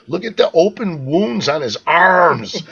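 mock horror, stretched words; appalled wife. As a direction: act out the wife pointing out the horror, slowly. Retells wife's appalled outburst.

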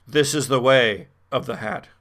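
intoning a mock solemn motto; horror host.

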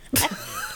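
high unvoiced creepy giggle; eerie breathy doll cackle; creepy doll laugh. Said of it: "What the hell was that?".

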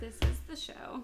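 breathy whispered echo. Acted. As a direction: whisper the line back. Co-host echoes the show tagline.

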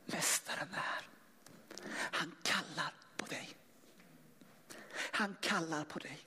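soft urgent whisper; a sister whispering that the master is calling. Acted. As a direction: whisper it close to her ear. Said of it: "kom nära och viskade".

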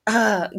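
high-pitched retold gasp of shock. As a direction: imitate being stunned speechless. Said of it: "shocked, you know".

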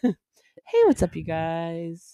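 hoarse slow greeting; raspy throat, drawn out slowly; smoker's rasp. Real, not acted. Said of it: "I sound like I've been smoking".

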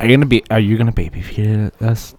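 laughing. Real, not acted. Laughing at being spoon fed.

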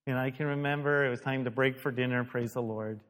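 ordinary talk

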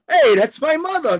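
loud, high indignant retort; offended protest. Retold or imitated. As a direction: snap back like a hurt friend. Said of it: "And Russell goes".

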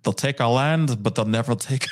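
lightly hammed Scottish accent; a rough go at a Scottish accent; attempted Scottish accent. Streamer joking with viewers, attempted Scottish accent. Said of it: "a, uh, Scottish accent".

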